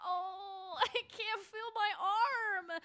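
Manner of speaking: slow, whimpering complaint; drawn-out injured groan; pained moan. Acted. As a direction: whimper over the hurt arm. Moaning after being hurt.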